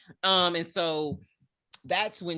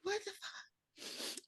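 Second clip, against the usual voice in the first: stunned disbelief; 14 dB quieter, much slower than usual. Real, not acted. Reacting to a disturbing quote.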